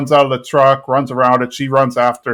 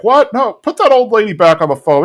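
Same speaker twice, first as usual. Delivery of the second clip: high, louder startled outburst; mock panic at a phone threat; shocked; 8 semitones higher, 3 dB louder than usual. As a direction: jolt up in alarm.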